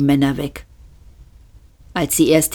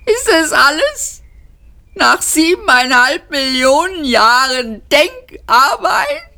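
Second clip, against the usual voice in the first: shrieking; 11 semitones higher, 4 dB louder than usual. A narrator's reading. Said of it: "kreischte Luung Kual los".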